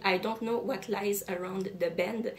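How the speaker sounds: slow, careful English with a French-Canadian accent. Real, not acted. Booktuber reads the English back-cover quote in a French accent. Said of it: "Excusez mon accent".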